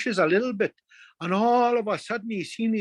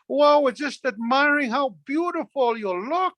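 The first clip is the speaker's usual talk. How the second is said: higher-pitched sweet-talking plea; pleading flattery; 6 semitones higher than usual. Acted. Pleading with little birds as they fly away, pleading. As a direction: plead with them through admiration. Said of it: "he was just pleading with them".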